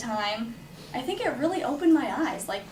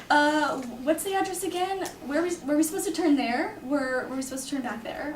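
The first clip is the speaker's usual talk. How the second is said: higher-pitched questioning voice; imitated confused driver; 4 semitones higher than usual. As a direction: play a driver unsure of the way. Confused driver asking for directions.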